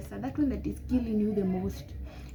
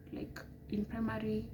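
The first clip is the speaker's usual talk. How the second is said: whispered; 7 dB quieter than usual. Real, not acted. Drops to whisper.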